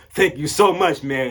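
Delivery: mock tearful voice. Retelling how a man thanked the speaker's friend, imitating teary thanks. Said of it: "he has a little bit of tears coming down".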